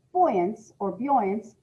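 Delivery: "buoyance or buoyance" spelled out slowly, each version drawn out; slow careful "buoyance or buoyance", weighing the sound; two pronunciations tried. Shown as a demonstration. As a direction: test both ways of saying "buoyance", very slowly. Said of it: "it's actually, uh, pronounced buoyance".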